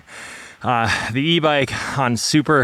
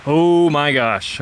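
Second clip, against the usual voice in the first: out of breath. Real, not acted. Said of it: "breathing hard a few times up this climb".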